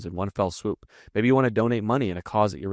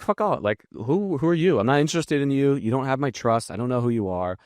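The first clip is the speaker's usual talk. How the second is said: higher, dismissive brush-off; annoyed stranger; 5 semitones higher than usual. Retold or imitated. Stranger at a bar rejecting a pushy pitch, higher and dismissive. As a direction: shoo away a pushy stranger. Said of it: "they're gonna be like".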